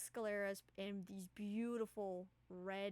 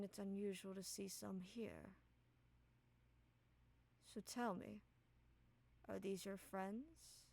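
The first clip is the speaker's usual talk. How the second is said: gently imposing figure, long pauses between phrases; soft, authoritative; 4 dB quieter than usual. Acted. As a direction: address a protégé softly but with authority. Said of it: "in a very authoritative voice, but also soft".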